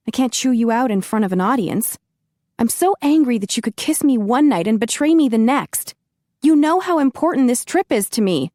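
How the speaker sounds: angry scolding on the phone. Acted. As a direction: let the anger build to the end. Heroine chewing him out.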